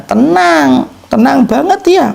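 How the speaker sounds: tenang banget. Acted. Preacher answers own question emphatically.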